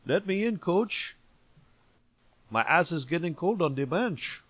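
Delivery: a player pestering to get in the game; begging benched player. Pretend. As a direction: player on the bench begging the coach to let him play. Mock player begging coach.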